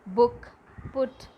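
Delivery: "Book, put" with a short uh-oo vowel; each word said singly, short rounded vowel. Shown as a demonstration. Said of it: "short U sound".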